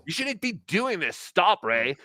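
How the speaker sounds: mock pleading scold, starting high; Chad. Host mimicking a comedian scolding his rival, mock whining. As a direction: imitate a petty, whiny heckler. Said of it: "it's just Chad going".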